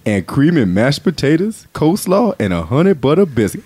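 lightly voiced ad announcer. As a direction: pitch the food in an easygoing voice. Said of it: "announcer voice is this".

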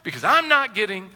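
squeaky mock whine of a spouse. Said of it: "you just ask that question".

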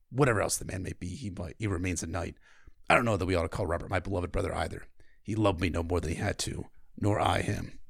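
a hint of a low, jaw-clenched stern king; lightly voiced grim king, through a tight jaw; Stannis voice. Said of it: "I always try to clench my jaw when I do the Stannis lines".

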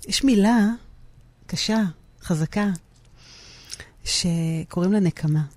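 slow, heavy, pauses before נקמה; "קשה, חזקה" laid down slowly, then a pause and a weighty "נקמה"; weighty slow build. Shown as a demonstration. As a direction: drop each word slowly and let "נקמה" land hard. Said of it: "מה זה עושה לך שככה אמרתי אותה".

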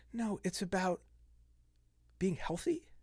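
whisper. Real, not acted. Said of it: "emphatic whispered point".

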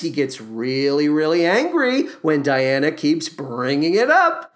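normal talking voice

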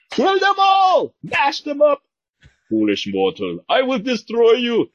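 high, slow monster roar; dragon voice. Pretend. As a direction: bellow like a raging monster. Voicing the Mountain character.

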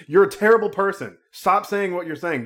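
high, loud imitation of a scolding mother; mock scolding. The rich mom scolding the drunk son at dinner, in a high mock rebuke. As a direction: tear into him like the rich mom. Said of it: "And she's like".

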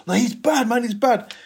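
ringleader vouching. Retold or imitated.

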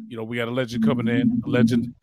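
building to a loud hype call on media. Real, not acted. Host hyping up the coming guest, excited. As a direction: pump up the crowd for the legend.

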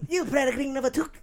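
helium voice. Acted. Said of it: "awful impressions of awesome movies".

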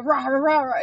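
aggressive roar; dinosaur voice. Shown as a demonstration. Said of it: "But then if I go".

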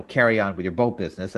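quick, mocking parrot of the line; mocking echo. Oscar mocking Felix's salute line, quick and mocking. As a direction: toss the words back to make fun of him. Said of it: "And then Oscar mocks him".

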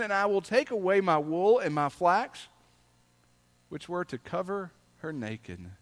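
solemn reading from the pulpit; scripture reading. Acted. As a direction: read the verse as God's own words. Reads scripture aloud.

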